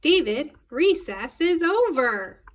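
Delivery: loud, high, drawn-out command; scolding teacher. A narrator's reading. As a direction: stretch the order out like an exasperated teacher. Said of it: "David's teacher always said".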